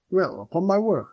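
high, swooping astonishment; astonished superintendent. Acted. Superintendent watching his aloof cat, astonished.

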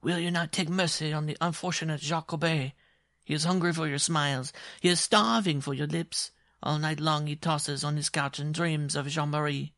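high, pleading declaration of love; shrill dwarf suitor. Acted. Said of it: "shrill as a pin scratching".

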